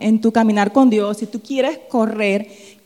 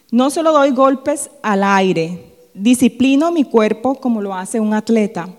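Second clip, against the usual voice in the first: loud, measured verse reading; declaimed Bible verse; scripture reading; 5 dB louder than usual. Acted. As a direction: read the verse out firmly, phrase by phrase. Reads the verse aloud.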